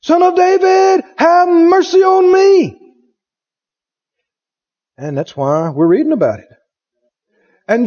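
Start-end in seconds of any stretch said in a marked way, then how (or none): 0.0-2.8 higher, louder and slower, pleading; a blind beggar calling to Jesus over the crowd, louder and higher; crying out louder. Retold or imitated. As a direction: cry out harder for mercy, drawn out. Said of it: "he cried the more a great deal".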